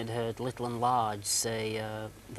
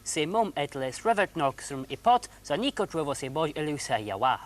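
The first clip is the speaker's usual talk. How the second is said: backwards talking; 3 semitones higher than usual. Acted. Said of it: "Zarb backwards talking".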